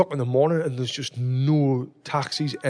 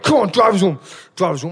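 higher, louder exasperated urging; retold impatient order; 4 semitones higher, 5 dB louder than usual. Telling mates how he ordered the driver onward, exasperated. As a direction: push the order out, raised and impatient.

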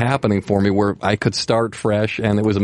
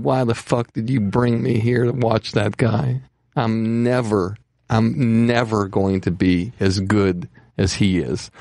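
put-on despairing young comic; slower than usual. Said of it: "he said".

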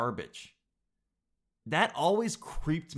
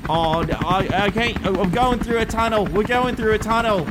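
British reporter voice; 6 semitones higher, 6 dB louder than usual. Acted. Nigel dodges question.

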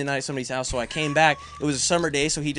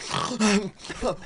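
mock waking gasp; 6 semitones higher than usual. Dad jolting awake, retold.

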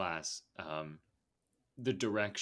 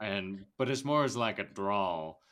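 Southern accent attempt. Shown as a demonstration. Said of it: "try and do the accent".

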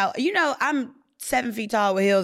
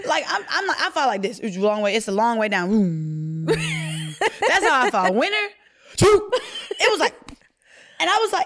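can't stop laughing recalling the fall; laughing while telling. Real, not acted.

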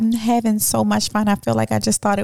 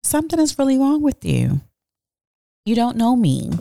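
exasperated outburst; 6 semitones higher than usual. Retold or imitated. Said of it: "I just couldn't hold it in".

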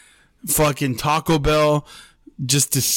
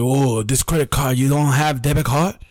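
lightly imitated foreign-accented English; hint of a foreign motel clerk's accent. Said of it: "This is how he spoke, bro".

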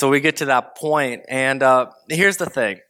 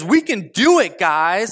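higher, louder rallying call; fired-up rally; 3 semitones higher, 3 dB louder, slower than usual. Retold or imitated. Caleb rallying the Israelites, loud and eager. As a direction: pump the crowd up with it. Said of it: "So Caleb says".

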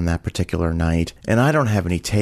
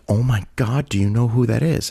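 mildly acted giddy gush, a bit higher; giddy excitement; 4 semitones higher than usual. Hostess runs up to server about a celebrity, giddy. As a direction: retell a hostess's starstruck question with light excitement. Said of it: "very excited and very giddy".

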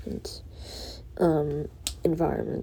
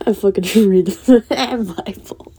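mocking a Christian; 5 dB louder than usual.

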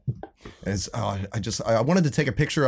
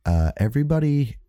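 slow, measured imitation of a calm bandmate; calm announcement; slower than usual. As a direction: act out calmly instructing the group, with careful pauses. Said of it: "he really calmly stands up and goes".

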